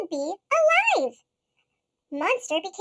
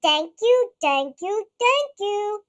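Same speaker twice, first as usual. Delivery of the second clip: giant's thanks; 4 dB louder, slower than usual. Acted. Giant squeezing the little monsters, booming thanks. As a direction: boom out grateful thanks.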